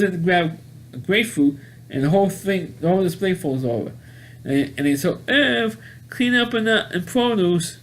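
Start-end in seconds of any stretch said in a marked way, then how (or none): 5.3-7.8 high, drawn-out paging call; store PA announcer. Retold or imitated. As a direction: imitate a supermarket intercom announcement. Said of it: "the guy in the P A system".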